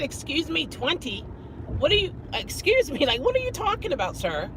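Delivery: high-pitched incredulous questioning; retold disbelief at the host; baffled challenge. Guest challenging the manager over a bare number, baffled.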